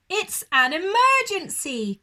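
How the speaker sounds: high, loud, fast cry; shouting. Acted. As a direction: make it sound urgent and alarmed. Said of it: "cried Aussie".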